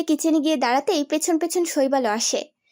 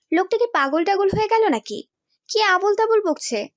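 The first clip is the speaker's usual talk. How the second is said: baffled wondering; 5 semitones higher than usual. Acted. Baffled wife wonders about husband.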